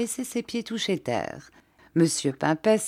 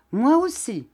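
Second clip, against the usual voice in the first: announced; 7 semitones higher, 4 dB louder than usual. A narrator's reading. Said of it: "annonça".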